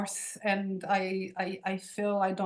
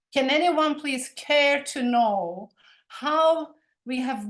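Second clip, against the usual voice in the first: impassioned plea; 3 semitones higher, 5 dB louder than usual. Real, not acted. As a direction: press each word, begging someone to care.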